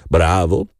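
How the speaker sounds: mild mocking cheer; a light, teasing bravo; lightly mocking applause word. A narrator's reading. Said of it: "śmiał się Edward".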